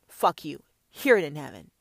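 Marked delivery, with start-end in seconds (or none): none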